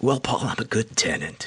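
mean, nasty radio dj voice. Paul answers himself as the voice in his head, in a mean DJ voice. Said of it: "mean DJ voice".

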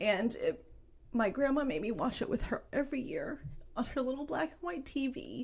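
tearful. Remembering watching a romance movie every year with grandma: crying. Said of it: "you're crying".

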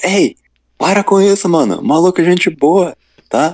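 shouted, very high-pitched. Recounting a game, yelling at another player to stop: retelling a shout at another player. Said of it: "Estava eu e o outro Player gritando".

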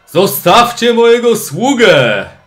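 loud booming yell. In a tabletop game, a player's mage shouts toward where Ingolf lies, a loud booming shout. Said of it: "krzyczy takim głosem donośnym".

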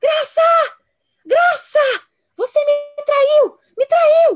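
accusing scream, very high, very loud, drawn out. Recounting how a woman shouted from inside the narrator's room: imitating a loud scream. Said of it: "ela gritou muito alto".

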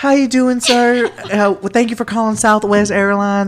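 put-on high-pitched Southern country-lady accent. Retelling a call to southwest and the agent's greeting, imitating a country lady. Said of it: "I get this very country lady".

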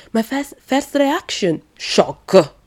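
high-pitched attempted Italian accent. Retelling a reaction to a press-conference remark as a man would say it, in a put-on Italian accent. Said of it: "as it would say with his Italian accent".

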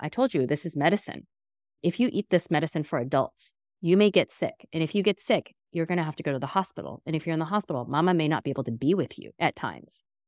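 even, calm, earnest and serious explaining tone. A mother retells what she told her child about the medicine, in a calm, serious tone. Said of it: "In like a calm, but like serious tone".

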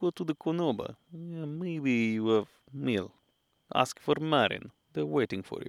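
put-on Russian gangster accent. Retelling what locals told them about a restaurant, in a mafia accent. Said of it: "still the mafia accent".

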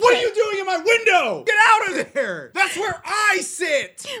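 very high, shrill, furious screaming. Joining in, imagining a man screaming at a cat: imitating someone screaming. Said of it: "screaming at a cat".

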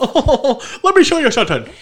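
put-on talking with teeth out. Imitating the other speaker talking and smiling at once: imitating talking through a smile. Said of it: "talking like this kind of with your teeth out".

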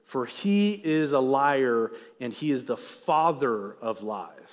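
drawn-out, slow, deliberate reading aloud. Reading Jesus's words from scripture aloud: reading slowly. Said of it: "i'll read it slow for you".

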